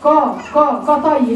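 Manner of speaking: "كا" made thick and dark; heavy "ka" in "كطي"; wrong heavy kaf. Shown as a demonstration. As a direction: back the vowel of "كا" as if before an emphatic letter. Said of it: "بفخمها يا اخي".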